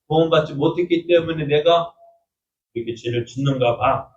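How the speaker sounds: mild, dejected admission; resigned self-doubt. Retold or imitated. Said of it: "생각을 합니다". (조금 풀죽은 자책)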